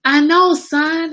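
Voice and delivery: loud, high, drawn-out exasperation; exasperated. Real, not acted. Mom answers her son's correction, exasperated. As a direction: cut off the correction, stretching each word.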